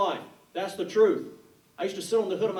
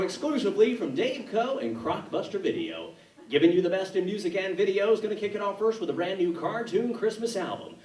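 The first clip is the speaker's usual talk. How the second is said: ad read. Retold or imitated. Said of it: "commercials I did".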